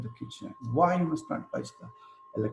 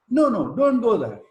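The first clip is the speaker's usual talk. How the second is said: loud, higher sharp no; warning parent; 6 semitones higher, 8 dB louder than usual. Retold or imitated. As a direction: call the kid back from the kitchen. Parent stopping kid from kitchen.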